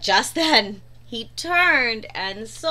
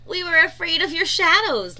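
laughing; 5 semitones higher, 5 dB louder than usual. A narrator's reading. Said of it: "laughed Percy".

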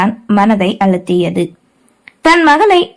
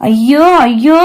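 wailing; 2 semitones higher, much slower than usual. A narrator's reading. Mother wailing.

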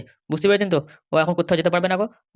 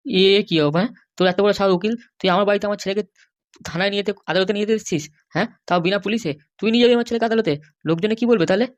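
mother berates the lawyer for taking her son, furious; outraged scolding; 3 semitones higher than usual. Acted. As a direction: tear into him for daring to come.

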